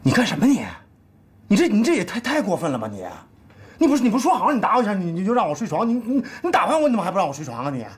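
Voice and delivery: high, rushed indignant complaining; indignant protest. Acted. Husband protesting to wife about the sofa, high indignant whine. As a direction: protest the unfairness at a gallop.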